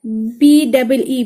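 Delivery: letters spelled out one by one; slow, deliberate letter-by-letter spelling. Shown as a demonstration. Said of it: "spelling the letters out slowly".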